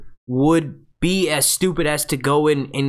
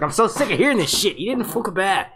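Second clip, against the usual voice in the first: Ygritte voice; 6 semitones higher than usual. Retold or imitated. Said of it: "She's like".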